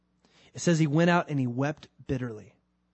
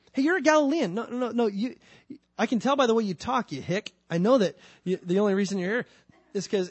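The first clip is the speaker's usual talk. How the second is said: taunting accuser; 5 semitones higher, 3 dB louder than usual. Acted.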